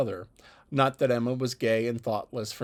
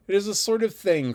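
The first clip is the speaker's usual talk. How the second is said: high, loud, indignant emphasis; emphatic cry; 8 semitones higher, 6 dB louder than usual. A narrator's reading. Mrs Elton emphatically protesting to the party, loud. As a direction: insist it, loudly offended. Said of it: "cried Missus Elton emphatically".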